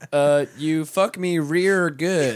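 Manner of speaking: slow mock Asian accent, r for l. Redoing the joke line slowly in a mock Asian accent. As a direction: drawl "rear good" in a bad accent. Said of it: "terrible Asian accent".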